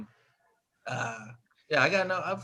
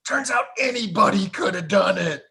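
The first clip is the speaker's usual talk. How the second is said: indignant reveal; 5 semitones higher, 3 dB louder than usual. Retold or imitated. Roommate reveals disappointing film conclusion.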